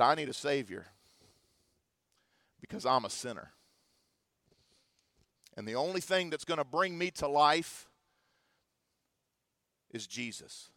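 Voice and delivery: low, soft retold confession; hushed realization. Retells daughter's solemn realization.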